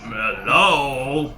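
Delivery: tiny fairy call, rising; lilting little fairy hello. Pretend. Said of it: "Maybe I'll try my fairy's voice".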